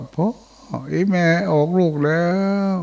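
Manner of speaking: high, pleading call of a man's wife; tiger luring hunter. Retold or imitated. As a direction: call out like a human to lure him. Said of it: "บอกว่า". (เสียงเสือแกล้งเรียกพ่อ สูงขึ้น)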